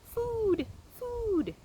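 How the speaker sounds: very high squeaky peep; peeping gosling. A narrator's reading. Hungry gosling peeping at Roz, squeaky. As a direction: peep like a tiny chick. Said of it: "peeped the gosling".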